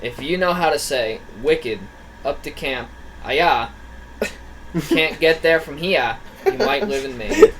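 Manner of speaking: struggling attempt at a Maine accent; halting Maine accent. Reading a Maine joke aloud to friends, halting Maine accent. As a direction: read it in a clumsy, half-there Maine accent. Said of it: "having such a hard time with a Maine accent".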